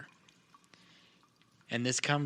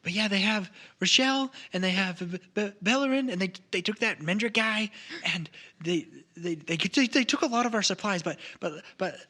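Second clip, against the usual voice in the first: frightened stammer; 4 semitones higher than usual. Acted. Frightened gnome stammers news.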